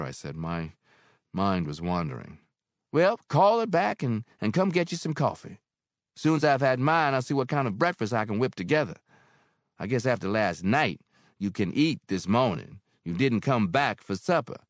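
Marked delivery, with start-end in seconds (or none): 2.9-14.6 higher, louder landlady voice; motherly landlady; Mary, older woman. Acted. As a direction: speak as kindly Mary. Mary's voice.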